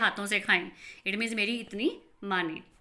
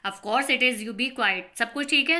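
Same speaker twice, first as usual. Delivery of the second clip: brisk retort; 4 dB louder than usual. Acted. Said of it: "एकदम से बोलते हैं".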